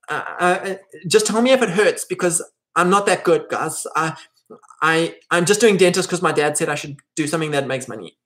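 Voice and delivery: nervous dentist. Retold or imitated.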